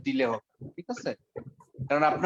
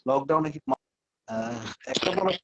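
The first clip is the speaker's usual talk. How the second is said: buffering stutter; 2 semitones lower, slower than usual. Real, not acted. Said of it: "কেটে যাচ্ছে".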